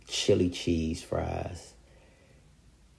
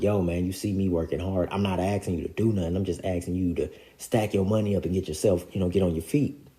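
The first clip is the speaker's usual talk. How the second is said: mild frustrated venting, a bit louder and quicker; retold frustration; 2 semitones higher, 6 dB louder, faster than usual. Venting at his brother about working hard, mildly frustrated. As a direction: push the words out in mild exasperation. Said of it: "taking my frustration out on him".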